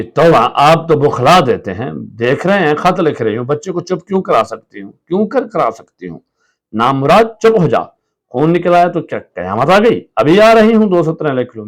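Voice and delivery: frazzled shouting. Acted. Wife yelling at husband and child while writing, frazzled. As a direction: shout in exasperation.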